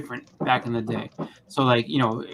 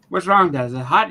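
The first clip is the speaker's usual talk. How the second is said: put-on kid asking; 3 semitones higher, 5 dB louder than usual. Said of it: "I was like".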